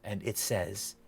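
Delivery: measured, dramatic scene-setting with deliberate pauses; game master narration. Acted. Game master describing a dream to a player, dramatic narration. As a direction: paint the vision phrase by phrase.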